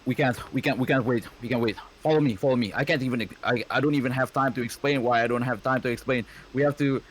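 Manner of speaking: hurried, urgent character voice; Japanese voice. Acted. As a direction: rush the words out in a panic. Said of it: "that's the Japanese voice".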